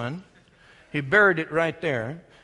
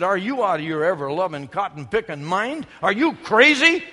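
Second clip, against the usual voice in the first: incredulous scoff; 5 dB louder than usual. Acted. Brothers to young David, loud incredulous scoff. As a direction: scoff at the kid's crazy idea.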